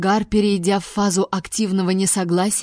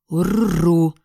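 creature grunt; 2 semitones lower than usual. Acted. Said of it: "ответствовал похититель".

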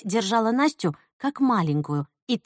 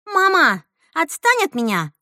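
higher and louder snap; irritated; 7 semitones higher, 4 dB louder than usual. Acted. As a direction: snap at her mother. Daughter snaps at mother.

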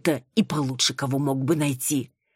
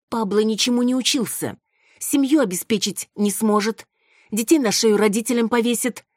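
high, loud relentless tirade; lashing out; 7 semitones higher, 4 dB louder than usual. A narrator's reading. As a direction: hit him with every flaw, loud. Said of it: "била наотмашь". (громкая, высокая гневная тирада)

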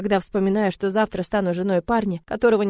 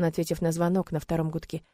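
ordinary delivery

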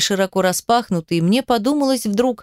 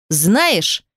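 a mildly raised, pressing question. A narrator's reading. Rich man presses the girl, mildly raised voice. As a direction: push the question at her harder. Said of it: "повысил голос".

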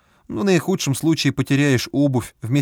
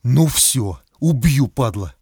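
furious threat; 4 dB louder, much slower than usual. A narrator's reading. Enraged man threatens.

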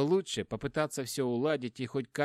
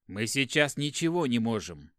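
desperate; 5 dB louder than usual. Acted. Brother defends his choice, desperate.

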